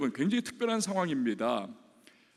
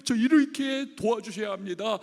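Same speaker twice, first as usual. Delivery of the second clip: urgent plea; 3 semitones higher, 6 dB louder than usual. Retold or imitated. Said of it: "하나님 앞에 바라는 뭔가가 있습니다".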